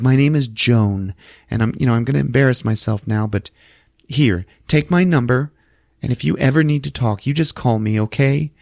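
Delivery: a hint of a gentle stranger offering help; sweet old lady. Joan voiced offering number.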